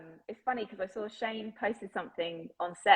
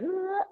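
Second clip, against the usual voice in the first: high, slack-tongued "ugh" sound; demonstrative lazy American-mouth noise; loose numb tongue noise; 12 semitones higher than usual. Shown as a demonstration. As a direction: let the tongue flop into a mushy noise. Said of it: "my tongue just kinda goes".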